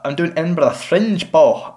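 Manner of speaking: put-on quick slipped-in Scottish accent. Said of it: "sorry, I shouldn't really do a Scottish accent".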